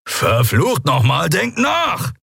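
slow then sharp, high angry outburst; snapping at them. A narrator's reading. Kero snapping at the crew, angry. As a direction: bite their heads off. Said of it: "als Kero sie anfuhr".

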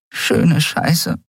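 whispered curse into hands; muttered curse. Acted. Nelen curses behind her hands, whispered. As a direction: curse under your breath.

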